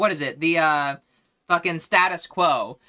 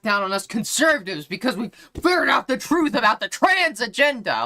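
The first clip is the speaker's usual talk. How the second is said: mocking conservative; 3 semitones higher than usual. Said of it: "pretend that they're oppressed".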